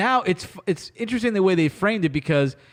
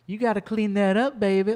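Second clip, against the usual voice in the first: smirking taunt; 2 semitones higher than usual. Retold or imitated. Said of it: "give her a smirk".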